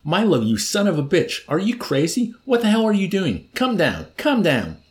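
screaming at the top of his lungs, high; frantic yell into the microphone; hysterical shouting. A narrator's reading. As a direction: colonel bellowing hysterically into the mic. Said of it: "began shouting hysterically at the top of his voice".

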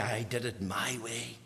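dismissive quote. Retold or imitated. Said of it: "I don't want to be saying".

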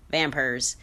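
"vampires" said as "vampers", lightly Southern; Southern accent. Retold or imitated. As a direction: imitate a Southern drawl on "vampires". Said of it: "in a Southern accent".

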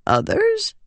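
sharp high startled question; alarmed realization. Acted. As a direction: it suddenly dawns on her. Sudden realization.

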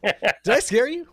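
high, slow spooky tease. Shown as a demonstration. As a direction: ham it up like a ghost story. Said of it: "You started something. You have to finish it now".

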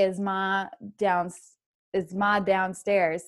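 slow "ma" with no r before "downstairs"; Boston "ma" without r. Shown as a demonstration. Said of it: "it's ma".

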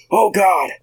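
high-pitched mock-panicked reaction; gasped-out pretend dread; mock alarm. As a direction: act out a scared onlooker. Acted alarmed reaction to the roulette.

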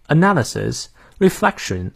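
British English pronunciation demo. Shown as a demonstration. Teacher models British pronunciation for learners, British accent. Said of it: "我们来看一下英式发音".

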